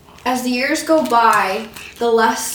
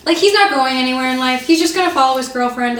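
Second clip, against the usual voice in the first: imitating friend's mom; 4 dB louder than usual. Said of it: "she's been like".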